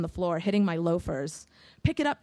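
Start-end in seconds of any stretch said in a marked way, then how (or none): 1.8-2.2 ordered. Acted. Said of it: "the kid ordered".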